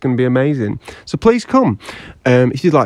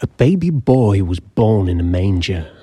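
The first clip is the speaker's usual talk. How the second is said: epic fantasy narrator; 2 semitones lower than usual. Acted. Mock epic birth story intro.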